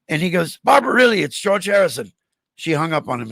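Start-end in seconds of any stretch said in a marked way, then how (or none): 0.6-2.1 retold insistence. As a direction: re-enact a caller trying to be believed. Disbelieved caller insists on who he is.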